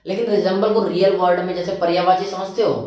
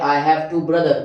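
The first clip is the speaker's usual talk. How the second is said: slow, careful dictation; slow model sentence; much slower than usual. Shown as a demonstration. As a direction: say it slowly for the class. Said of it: "ये main verb की तरह काम कर रहे हैं". (धीमे, साफ़)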